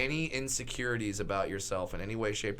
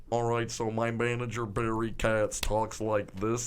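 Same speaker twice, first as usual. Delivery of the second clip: Barry Katz; 4 semitones lower than usual. Shown as a demonstration. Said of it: "is a perfect impression".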